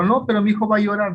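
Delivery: imitating a protesting mum; insistent mother. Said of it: "La mamá".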